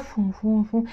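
soft, puffed "fum" sounds; imitated rummaging noise. Shown as a demonstration. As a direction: puff little noises as if searching the fridge. Mimes rummaging through the fridge.

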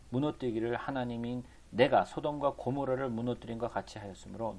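even, measured Bible reading; scripture reading. A narrator's reading. Preacher reading the prophet's words to the congregation, formal recitation. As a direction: read the verse out formally.

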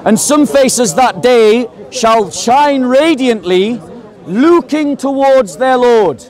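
slow, emphatic verse reading; scripture recitation. Acted. Debater quoting scripture to opponents, slow declaimed reading. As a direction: read the verse out slowly, word by word.

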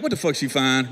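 scared quiet aside; dread whisper. Retold or imitated. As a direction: mutter it under your breath in dread. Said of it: "I was like".

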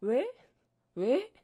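mock kid asking why over and over; pestering why. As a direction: play a nagging kid firing questions. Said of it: "물음표 살인마였어".

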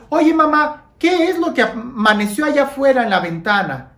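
put-on a light child's voice, curious; child waking up. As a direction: play the sleepy kid asking mom.

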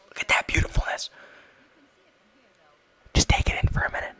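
hushed awed whisper. Acted. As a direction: breathe it in reverent awe. Admiring screenshot.

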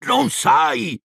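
high, exclaimed disbelief; high-pitched cry of astonishment; incredulous outburst. A narrator's reading. Hagrid stunned, repeats himself louder.

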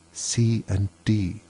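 hushed, very slow letters; cautious stage whisper, slowly. A narrator's reading. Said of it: "she added in a whisper".

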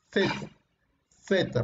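Z, tongue between the teeth; theta-like Z; demonstrating Z. Shown as a demonstration. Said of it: "si tú dices la Z".

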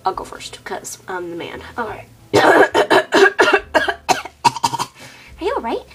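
talking around a wad of tobacco; chewing tobacco. Acted. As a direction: mouth full of chewing tobacco. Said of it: "Hold on, I gotta spit".

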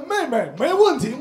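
loud, slow heroic reply; mock heroic brother. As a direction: play the eager rescuing brother. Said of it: "冲过来说". (夸张英勇的哥哥)

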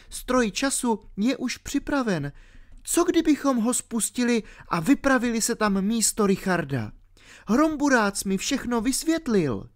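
put-on a ten-year-old girl explaining herself. A narrator's reading. Alenka explaining to R why she fell asleep, girlish.

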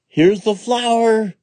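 put-on high, loud, slow child's shout; excited shout. A narrator's reading. Jack shouts to his mother, high and loud. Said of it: "shouted Jack".

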